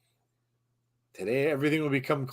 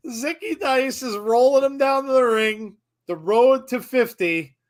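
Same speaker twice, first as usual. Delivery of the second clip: hype announcer; 8 semitones higher, 4 dB louder than usual. Acted. Hyping wrestler's entrance.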